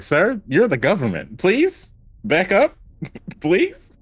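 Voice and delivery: high, slow pleading with a laugh; mock plea. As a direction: beg the agent to back off, hammed up. Mock plea to government agent.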